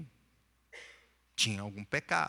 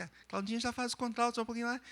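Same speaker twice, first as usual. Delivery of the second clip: much higher, softer, light contralto voice; higher, softer alto register sample; contralto demo; 10 semitones higher, 5 dB quieter, much faster than usual. Shown as a demonstration. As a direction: lift into a contralto to show the range. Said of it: "Nós temos o contralto".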